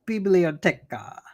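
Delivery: slow, clumsy American-accented Spanish; bad Spanish accent. Shown as a demonstration. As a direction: sound out Spanish badly and slowly. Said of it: "My Spanish, just like John's, is bad. I'd be like".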